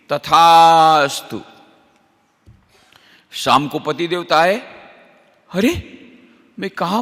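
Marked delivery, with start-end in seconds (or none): 0.1-1.4 slow, deep divine pronouncement; deity's blessing. Retold or imitated. Conch god grants the wife's wish in slow deep voice. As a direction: draw it out like a god granting a boon.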